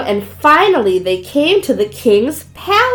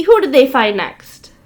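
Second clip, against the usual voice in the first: usual speaking voice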